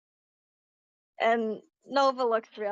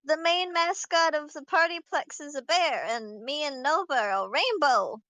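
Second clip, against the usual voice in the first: put-on high excited kid voice; cartoon princess; 4 semitones higher than usual. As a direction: stumble eagerly like a small child. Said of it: "Comet's like".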